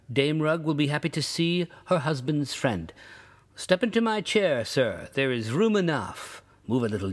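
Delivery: a hint of Rugg welcoming his new friend warmly; Rugg's hearty invitation. Rugg inviting the stranger home, lightly voiced eager host.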